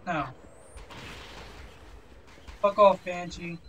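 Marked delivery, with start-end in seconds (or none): 2.6-3.6 irritated, fairly contained dismissal; annoyed. Real, not acted. Player swatting at a Banshee in game, annoyed. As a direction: tell it off without yelling. Swearing at an attacking enemy.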